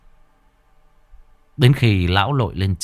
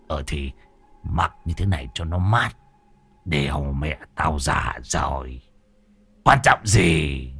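low dismissive grumble; 9 semitones lower, 5 dB quieter than usual. Acted. Old man shrugs off embarrassment.

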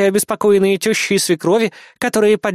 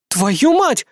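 cursing; 7 semitones higher than usual. A narrator's reading. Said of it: "выругалась Бисмарк".

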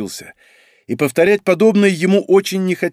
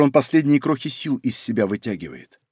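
ordinary delivery, nothing marked

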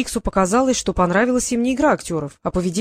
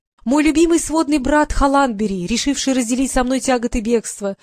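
pathetic princess; 4 semitones higher than usual. Acted. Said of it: "патетически восклицать".

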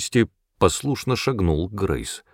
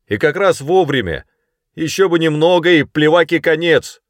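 high, loud shout across the river; man shouting from the stern; calling back; 8 semitones higher, 5 dB louder than usual. A narrator's reading. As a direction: yell the news to the shore.

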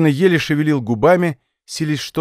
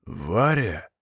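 creaky, low and much softer; 8 semitones lower, 7 dB quieter than usual. Acted. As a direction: rasp the name out weakly. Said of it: "проскрипел он".

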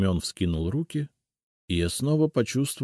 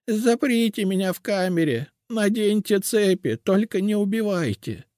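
put-on doomed old witch; 4 dB louder than usual. A narrator's reading. Cursed witch explains her fate to the seer, despairing. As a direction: lament your final end.

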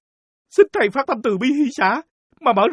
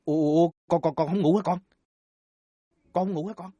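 put-on soft hushed whisper to a child; quiet late-night voice; 7 semitones lower, 6 dB quieter than usual. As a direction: keep it low so no one wakes.

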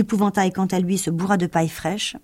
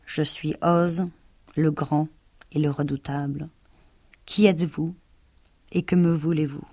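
calm Oz voice. Acted. Oz addressing the trembling lion, calm and grave. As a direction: speak calmly as the great and terrible. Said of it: "une voix calme sortit de la boule de feu".

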